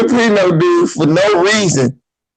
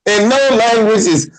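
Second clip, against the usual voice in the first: incredulous; 7 semitones higher than usual. Retold or imitated. Incredulous questioning coworker.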